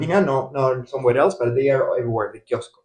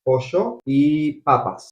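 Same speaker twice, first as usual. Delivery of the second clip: slow demo; slower than usual. Shown as a demonstration. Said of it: "we would say it like this".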